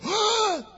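high startled mock gasp; mock shocked gasp. Shown as a demonstration. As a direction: gasp as if offended. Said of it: "did Jesus go".

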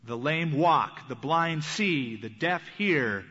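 solemn slow Jesus. Acted. Jesus answering John's messengers.

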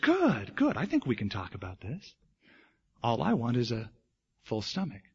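mild coaxing negotiator; soothing bear. Acted. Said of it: "the bear spoke softly, soothing voice".

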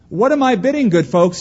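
loud, high auctioneer call; auctioneer's cry. Acted. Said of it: "he cried".

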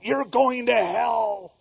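imitating the pier heckler yelling at passersby; mock pier preacher yell. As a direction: ham up a fire-and-brimstone yell. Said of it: "who used to yell at people going".

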